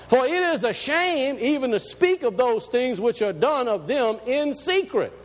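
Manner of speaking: slow, measured reading of the verse; scripture reading. Acted. Preacher reading the verse to his congregation, slow and measured. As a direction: lay each word out like holy writ.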